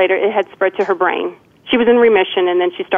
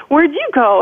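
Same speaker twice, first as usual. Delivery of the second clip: put-on higher, small child's echo; little girl echoing; 7 semitones higher, slower than usual. Lost little girl answers her mother, higher childlike echo. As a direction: parrot it back like a scared little kid. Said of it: "And I said".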